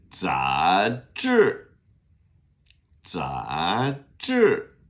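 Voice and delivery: 杂志 with 杂 rising and 志 falling sharply; model pronunciation. Shown as a demonstration. Teacher modelling magazine for repeating, rising then falling tones. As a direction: say 杂志 as a clear drill, up then down. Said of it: "Repeat after me".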